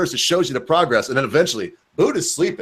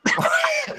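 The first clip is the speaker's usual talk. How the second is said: imitated dog noise; 4 dB quieter than usual. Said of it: "she'd be over here going".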